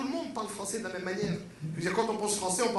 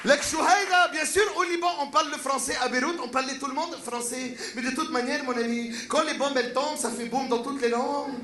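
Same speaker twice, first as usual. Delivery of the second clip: put-on Lebanese accent; 3 semitones higher than usual. Lebanese man boasting French is spoken in Beirut, Lebanese accent. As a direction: exclaim like a proud Beirut man.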